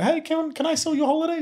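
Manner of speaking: put-on very high thirteen-year-old kid voice. Phoning a holiday company about selling their trips, in a thirteen-year-old voice. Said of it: "with a thirteen-year-old accent, uh, um, voice".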